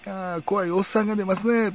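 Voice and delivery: high, put-on Kansai commentary voice; playful Kansai film-host impression; Kansai-dialect imitation. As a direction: slip into the host's Kansai aside. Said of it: "関西弁になるしね".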